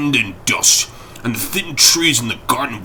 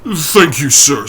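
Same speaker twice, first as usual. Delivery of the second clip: a note of triumph; 4 semitones higher, 7 dB louder, slower than usual. Acted. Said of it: "a note of something like triumph".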